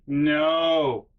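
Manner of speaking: hammed-up backing away; mock alarmed refusal.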